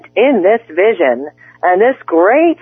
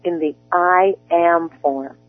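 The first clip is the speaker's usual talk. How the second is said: softer, measured guided-meditation delivery; guided affirmations; 4 dB quieter than usual. Acted. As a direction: speak each I am like a calm promise. Coach guides spoken affirmations.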